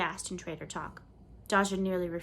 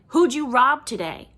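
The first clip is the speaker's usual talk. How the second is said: loud, higher mocking yell; jeering taunt; 6 semitones higher, 12 dB louder than usual. A narrator's reading. Boy taunting the girl in red, loud jeer. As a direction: bellow the taunt at her.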